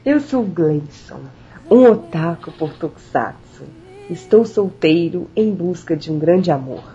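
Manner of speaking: voz sensual. Acted. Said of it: "Faz uma voz sensual".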